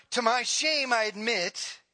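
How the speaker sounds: mock confession with a pause midway; sarcastic. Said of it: "He's being sarcastic".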